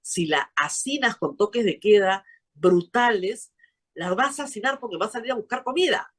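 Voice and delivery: exasperated retold warning, pitch climbing toward the end; retold shouted plea. Analyst recalls begging against lockdowns, retold shouted plea. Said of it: "Yo me mataba acá y gritaba".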